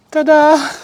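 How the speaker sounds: high, loud triumphant ta-da; excited ta-da. Real, not acted. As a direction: announce it like a magic trick. Reveal after pushing post in.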